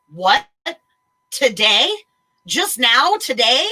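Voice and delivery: loud, incredulous repeated questions; loud disbelief. Retold or imitated. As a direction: demand it in disbelief. Retold outraged disbelief.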